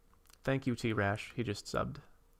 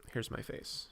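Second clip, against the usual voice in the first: breathy hushed whisper; 8 dB quieter than usual. Shown as a demonstration. Streamer whispering his face reveal to chat, whispered. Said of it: "Someone says face reveal".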